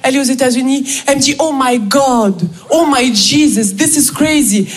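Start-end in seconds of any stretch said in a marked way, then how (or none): 1.4-4.7 slow, drawn-out American amazement; milk each exclamation like a gospel singer; gospel-style raving. Acted. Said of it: "Un gospel de dix-sept minutes".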